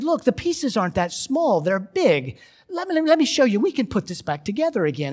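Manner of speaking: high, loud, urgent encouragement; acting out someone hurrying to console a child; eager reassurance. Acted man consoling crying girl.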